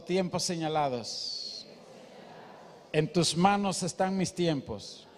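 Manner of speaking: slow, deliberate words for the neighbour; slow recitation. Shown as a demonstration. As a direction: spell it out slowly for the congregation. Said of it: "Dígale al que está a su lado".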